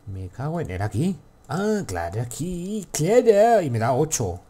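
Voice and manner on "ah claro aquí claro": oh-of-course cry, climbing higher word by word; exclaiming in sudden realisation. Real, not acted. Player finds where the egg goes, exclaiming. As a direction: pitch leaping up to a loud high peak. Finds the egg's place at last.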